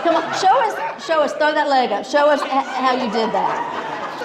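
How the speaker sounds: high-pitched, laughing demand for a demonstration; playful egging on. Real, not acted. Host teasing a colleague to show her leg throw, playful egging on. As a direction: goad a friend through laughter.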